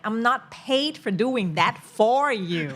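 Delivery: mildly indignant, leaning on the words; teacher venting about unpaid extra work, mildly indignant. Retold or imitated. Venting about ungrateful students.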